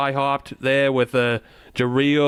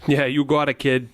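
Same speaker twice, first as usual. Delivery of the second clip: put-on Boston accent. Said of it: "That's quite the accent you got going on there".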